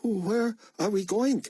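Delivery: put-on slow pleading Greek accent; Greek accent plea. A narrator's reading. Boy asking Buck where, Greek accent pleading. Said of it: "pleaded with a Greek accent".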